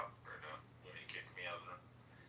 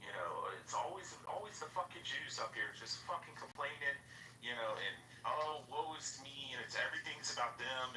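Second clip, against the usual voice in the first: retold rant, pitched up; mock angry complaining, higher than usual; 4 semitones higher than usual. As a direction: imitate someone going off on people. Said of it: "went off on Abby".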